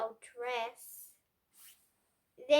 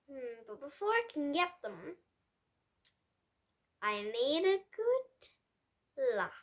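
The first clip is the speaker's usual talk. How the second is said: softer, scheming aside; sneaky whisper-scheming; 3 semitones lower, 7 dB quieter than usual. A narrator's reading. Pig plotting his lie, sly and soft. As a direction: hush it like a plotting villain.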